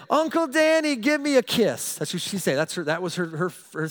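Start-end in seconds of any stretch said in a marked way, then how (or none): 0.1-2.0 put-on high, sweet little girl voice; little niece asking. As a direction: plead like a tiny niece wanting a kiss. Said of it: "she would say".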